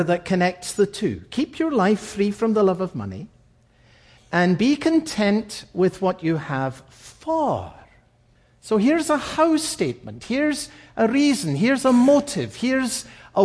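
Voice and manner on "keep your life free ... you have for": "for" lifted out at the very end of the verse; stress on for. Shown as a demonstration. Preacher pointing out the word "for" in the verse, stressing it. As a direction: read the verse and hang on the final "for". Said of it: "Notice the word "for".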